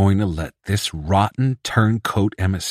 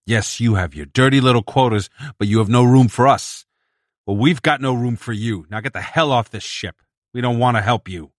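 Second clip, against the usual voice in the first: angry; 4 semitones higher, 3 dB louder than usual. Acted. Bedzik throwing out the emissary.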